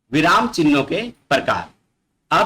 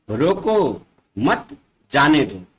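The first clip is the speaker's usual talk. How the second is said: slow, drawn-out रोको, a break, then मत जाने दो; pause after रोको; slower than usual. Shown as a demonstration. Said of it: "शब्द के बाद थोड़ा सा रुक गया है". ("रोको" को खींचकर रुकें, फिर "मत जाने दो")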